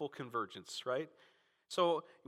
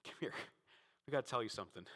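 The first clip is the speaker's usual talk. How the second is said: gentle invitation; 3 semitones lower, 7 dB quieter, faster than usual. Retold or imitated. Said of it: "and like".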